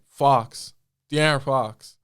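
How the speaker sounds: lightly imitated American accent. Player retelling the coach naming his lookalike, light American accent. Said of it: "Like, in his American accent".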